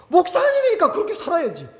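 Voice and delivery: high-pitched mock voice of a churchgoer; high, dismissive imitation; imitated critic. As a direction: quote the critic, pitched well up. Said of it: "어떤 분들은 또 그렇게 말하더라고".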